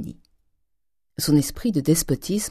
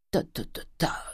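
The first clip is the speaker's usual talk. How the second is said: caressing voice; 7 dB quieter than usual. A narrator's reading. Grandet soothing his wife's reproach, caressing. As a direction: brush it aside gently, almost voiceless. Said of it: "d'une voix caressante".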